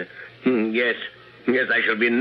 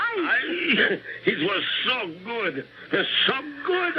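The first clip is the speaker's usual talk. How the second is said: delighted laugh; 11 semitones higher, slower than usual. Acted. Dictator overjoyed by taste.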